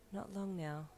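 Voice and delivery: soft, contented wife's murmur; contented sigh. A narrator's reading. Wife echoes husband in bed, soft contented sigh. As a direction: sigh it gently, at ease. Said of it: "she repeated with a contented sigh".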